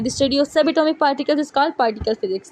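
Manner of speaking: reading the definition out word by word, slowly; slow dictation. Shown as a demonstration. Teacher dictating the particle physics definition to students, slow.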